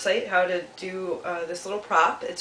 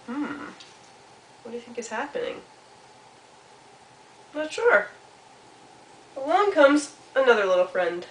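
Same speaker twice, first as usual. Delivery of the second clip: lilting narration with long suspenseful pauses; storytelling to children; 3 semitones higher than usual. A narrator's reading. Storyteller asks children what is happening, playful suspense. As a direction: draw young listeners in, musing between events.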